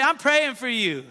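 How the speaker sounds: said out, firm and audible; confident church encouragement; out loud to neighbor. Shown as a demonstration. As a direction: say it boldly to the person next to you. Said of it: "Come on, look to your neighbor and say".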